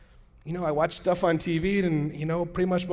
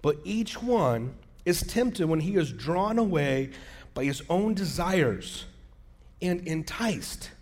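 slow, weighted Bible reading; scripture reading; 3 semitones higher, slower than usual. Acted. Pastor stressing a verse to church, slow and deliberate. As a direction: draw out each phrase of the verse.

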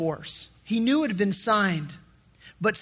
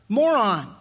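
mock scolding rebuke; 3 semitones higher than usual. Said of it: "you come to me and you say".

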